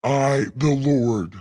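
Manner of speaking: lightly voiced booming God, slow; slow and grand, as the Lord himself. Gamer reading the Lord's lines in a mild God voice. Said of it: "right now in God voice".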